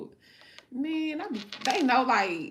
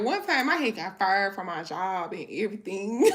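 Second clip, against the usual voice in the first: louder, laughing as she says it; can't keep the giggle out; 5 dB louder than usual. Real, not acted. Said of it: "it's funny now".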